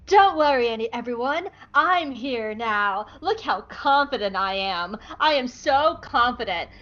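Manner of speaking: slow, drawn-out boasting; hammed-up self-assurance; confident Echo. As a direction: announce yourself with big bravado. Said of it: "Echo kicks in the door going".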